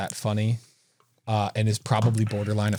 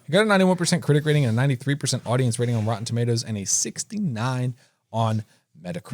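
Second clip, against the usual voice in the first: rushed reading; faster than usual. Real, not acted. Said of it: "I don't know if any of this is right".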